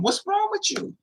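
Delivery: very high, panicked question, retold; acted freak-out. Parent shaking a limp child, freaking out. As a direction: shoot the pitch way up in mock panic.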